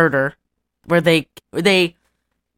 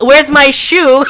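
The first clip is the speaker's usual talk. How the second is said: mock-dazed high question, slow; a dopey cartoon character, hammed up; dazed cartoon guy; 8 semitones higher, 6 dB louder, slower than usual. Friend retells a cartoon scene, dazed slow high voice.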